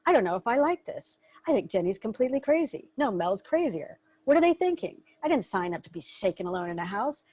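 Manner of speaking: mock inner voice of doubt, one line squeaks up, another drops quiet; half-hearted grumbling inner voice; doubting inner thoughts. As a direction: play a skeptical little mind-chatter, lightly. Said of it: "you'll start finding a thought like".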